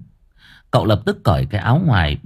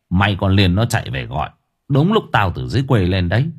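scolding uncle; 2 semitones lower than usual. Acted. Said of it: "cậu quở".

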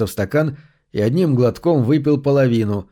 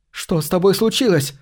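cry out; 6 semitones higher than usual. A narrator's reading. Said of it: "вскричала Кассандра".

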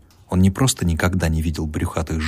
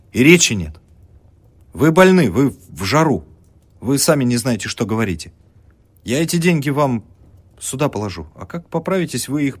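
loud, high, urgent protest; agitated pleading; 7 semitones higher, 5 dB louder than usual. A narrator's reading. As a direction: talk her out of it anxiously. (студент взволнованно уговаривает больную)

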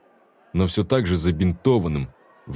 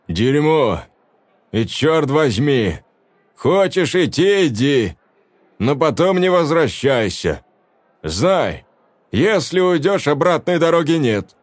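commanding man; 5 semitones higher than usual. A narrator's reading. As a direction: lay down the law. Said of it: "властный мужской голос".

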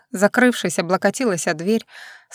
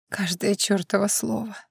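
softer, sunken answer; fallen voice; 8 dB quieter than usual. A narrator's reading. Vlada confirms the note to Vasil in a fallen voice. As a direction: let the voice drop away as you admit it. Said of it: "отвечает не своим упавшим голосом".

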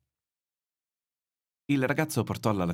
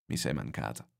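put-on tender old man; 7 semitones lower, 5 dB quieter than usual. Old man tells the boy.

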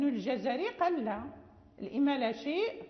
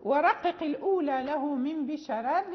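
recited verse; 4 dB louder than usual. Shown as a demonstration. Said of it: "فقال".

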